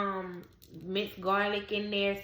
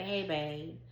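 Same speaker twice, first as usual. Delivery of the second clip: calm, gentle hello; calm greeting; 3 semitones lower, 4 dB quieter than usual. Retold or imitated. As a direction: say it softly, no fight. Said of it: "I say that really calmly".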